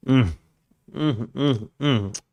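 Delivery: short, soft "mm" sounds over a tasty drink; savouring hums. Real, not acted. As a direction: hum with relish after a sip.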